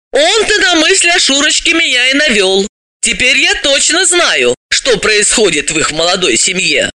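lightly voiced, knowing revelation; animated female character, confiding. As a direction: reveal it starting high, then ease down. Voices Dalila revealing what she knows.

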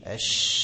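أش with air flowing, no voice; voiceless sh sound. Shown as a demonstration. Teacher demonstrating whispered sh to students. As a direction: let the breath run out on أش. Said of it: "هتيجي تنطق مثلًا الفاء".

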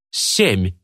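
plain reading voice

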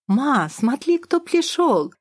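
put-on a small boy shouting with joy; excited little boy. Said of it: "радостно бросился мне навстречу Петюша". (радостный детский крик)

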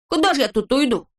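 high teasing reproach; Neznaika's voice. A narrator's reading. Neznaika chiding Vorchun, high voice. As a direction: needle the grumbler.

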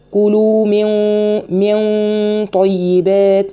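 slow طيبات with heavy ghunna; heavy nasal ghunna demo. Shown as a demonstration. Teacher shows students the heavy ghunna. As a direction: linger on the hidden nun before طيبات. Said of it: "شوفوا بتقولي إيه".

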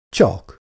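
Csak echoed with a falling, pointed tone; pointed repeat. Acted. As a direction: lean on Csak to question the word. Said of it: "ismételte meg Leon".

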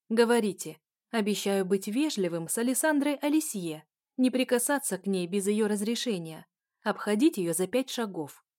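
громкий резкий приказ; рявкнуть команду; рявкнула. Acted. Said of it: "рявкнула я". (резкий окрик)

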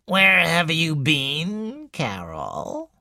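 loom over her and demand slowly; stern old mother. Acted. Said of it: "demanded Missus Boynton".

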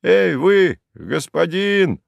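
high, slow holler; a peasant calling up to Kharlov. A narrator's reading. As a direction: shout up to the master. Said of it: "закричал".

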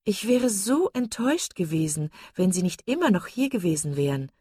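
gushing, leaning hard on one word; emphatic insistence. A narrator's reading. Lucy gushing at Elinor, emphatic and insistent. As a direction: press the word with sugary insistence. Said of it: "betonte das Wort nachdrücklich".

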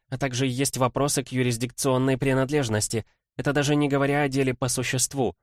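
brisk lawyerly princess voice, lightly voiced; quick, eager legal rattle; young woman voice. Kimbodzha's voice, lawyer rant.

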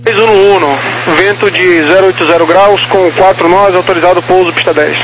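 pilot over the radio. Real, not acted. Radio transmission, far timbre.

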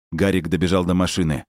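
ordinary delivery

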